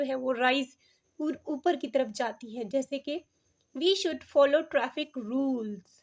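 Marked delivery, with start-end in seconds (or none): 3.8-5.9 "traffic rules" made prominent, slowly; slow example sentence, lifting "rules"; rise on RULES. Shown as a demonstration. Teacher showing rising intonation to learners, stress on "traffic rules". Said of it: "इसको prominent किया है, तो यहाँ पे rise है".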